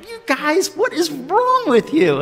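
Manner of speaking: high, loud scolding parent voice; a parent snapping at squabbling kids; exasperated parent scolding. Retold or imitated. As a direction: scold them like a fed-up parent. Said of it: "like parents who would respond with".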